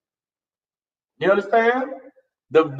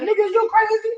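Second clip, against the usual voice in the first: high, frantic doomsday ranting; hammed-up apocalyptic panic; loud panicked voice; 13 semitones higher than usual. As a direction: scream warnings of the end times. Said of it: "that one that's loud, that's saying".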